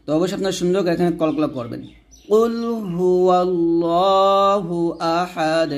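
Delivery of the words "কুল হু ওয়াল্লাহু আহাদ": slow chanted কুল হু ওয়াল্লাহু আহাদ with bounced দ; slow Quran teacher demonstration; model recitation. Shown as a demonstration. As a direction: recite slowly, bounce the final দ. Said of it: "এরকমভাবে পড়বেন".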